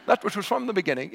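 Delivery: a quick hint of a British reading voice; British-accented Bible reading; mock British accent. Shown as a demonstration. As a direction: read it like a posh British Bible app. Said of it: "beautiful British accent".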